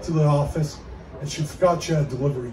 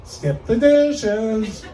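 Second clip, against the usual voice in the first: slow, higher squawked call; parrot mimicking; 5 semitones higher, much slower than usual. Parrot copying the dead delivery guy, slow and squawked.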